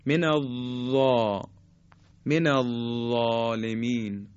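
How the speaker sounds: من الظالمین slow, zaa with tongue tip to teeth; الظالمین said slowly, zaa tip-of-tongue; tajwid zaa demo. Shown as a demonstration. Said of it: "به این شکل".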